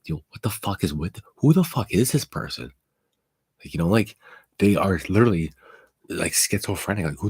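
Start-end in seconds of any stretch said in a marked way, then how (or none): 0.0-2.7 shocked outburst. Retold or imitated. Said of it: "They're all like".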